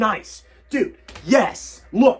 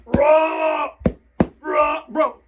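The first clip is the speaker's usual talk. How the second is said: exasperated cry; 6 semitones higher, much slower than usual. Real, not acted. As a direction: cry out in frustration. Fort collapsed, complaining.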